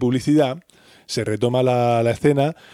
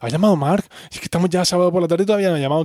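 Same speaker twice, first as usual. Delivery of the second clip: worried Rachel; 5 semitones higher, faster than usual. Retold or imitated. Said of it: "llega muy preocupada".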